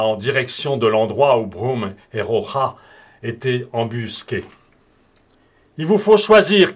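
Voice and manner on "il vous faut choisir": raised voice, high and loud; shouted ultimatum. A narrator's reading. Bob calls to his ambushed enemies, shouted demand. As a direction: call out the demand across a distance. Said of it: "cria-t-il".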